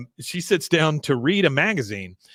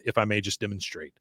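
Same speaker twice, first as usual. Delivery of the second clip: passive-aggressive; 4 semitones lower, 6 dB quieter than usual. Retold or imitated. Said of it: "her passive-aggressive phrase".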